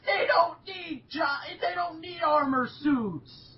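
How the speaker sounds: high, slow, emphatic objection; real incredulous outburst; exasperated protest. Real, not acted. Objecting loudly to robots wearing armor.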